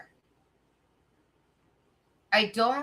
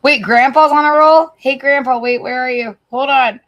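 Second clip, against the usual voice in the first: excited shout; 4 semitones higher, 12 dB louder than usual. Real, not acted. Excitedly calling to a viewer.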